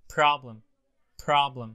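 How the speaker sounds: "Problem" with a popped, aspirated P at the start; puff of air on P. Shown as a demonstration. Teacher showing Arab learners the P in problem, puffed P. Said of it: "نفخ الورقة".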